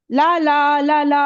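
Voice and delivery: ला, ला, ला, ला on one even tone, none stressed; unstressed, easy syllables. Shown as a demonstration. Teacher repeats pyrrhic example, all ला level and unstressed. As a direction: run ला evenly and relaxed, no beat standing out. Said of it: "आराम से बोल रहे हो ना".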